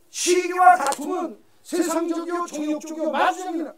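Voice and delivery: preacher thundering scripture again; forceful repeat. Real, not acted. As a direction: drive the verse home to the church.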